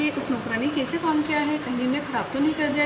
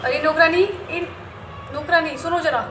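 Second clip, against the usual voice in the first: calling out. Acted. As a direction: summon the maid sharply. Calling the maid.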